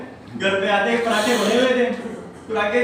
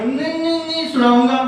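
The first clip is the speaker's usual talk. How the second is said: higher, insistent repeats; stuttering boy; 4 semitones higher than usual. Retold or imitated. Boy refuses to stop the story, stammering higher. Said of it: "तुतला के बोलता है".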